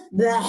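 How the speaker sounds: loud blurted retching sound; comic vomit sound for the honest speaker; mock vomiting noise. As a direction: spit it out like throwing up.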